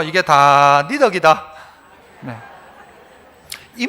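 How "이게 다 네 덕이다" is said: "이게 다 네 덕이다" slow, in Gyeongsang dialect. Shown as a demonstration. 목사가 성도들에게 경상도 말로 다시 말해 줌. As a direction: say it again the Gyeongsang way, slowly. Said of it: "경상도 말로 다시요".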